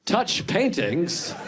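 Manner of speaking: slow, careful earnest explanation. Retold or imitated. Comic tells friend the museum rule, earnest. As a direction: spell it out gently for a slow friend. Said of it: "like, earnestly".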